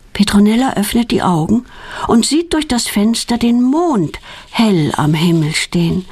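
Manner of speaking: usual speaking voice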